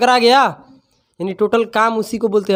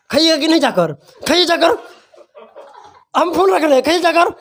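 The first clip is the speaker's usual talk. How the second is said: laughing mock tease; 8 semitones higher, faster than usual. Teacher imitating a cousin's phone flirting, laughing and higher. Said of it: "मेरा एक फूफा का लड़का था".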